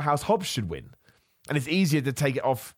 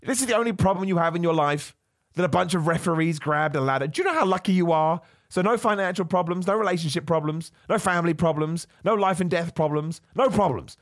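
yelling rant; 6 semitones higher than usual. Real, not acted. To the viewer fussing over a ladder, a high exasperated yelling rant. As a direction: yell it in disbelief at the viewer. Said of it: "I'm, I'm yelling with you".

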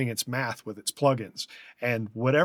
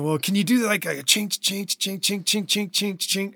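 students asking; 7 semitones higher than usual. Retold or imitated. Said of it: "they start saying".

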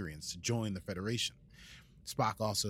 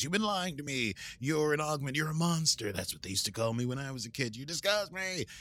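mock-angry, higher-pitched outburst; acted accusation; 4 semitones higher than usual. Recapping a betrayed crewmate's outburst, mock angry accusation. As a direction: hurl it as a lightly hammed-up accusation.

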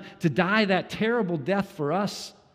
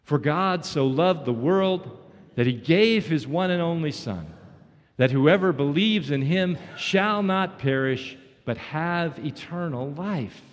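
reading scripture aloud; 3 dB louder than usual. Shown as a demonstration. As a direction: read the verse aloud with the congregation, steady and clear. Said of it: "Would you read it with me?".

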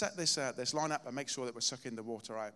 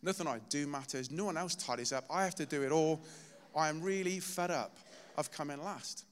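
retold frustrated cry to God; 2 semitones higher than usual. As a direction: pour out the fed-up grievance, rising in frustration. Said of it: "I was literally crying out to God".

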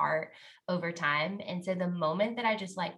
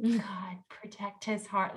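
cute sweet prayer; 3 semitones higher, slower than usual. Retold or imitated. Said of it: "cute, sweet".

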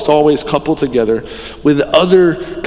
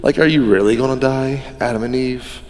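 sly serpent. Retold or imitated. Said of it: "the serpent was like".

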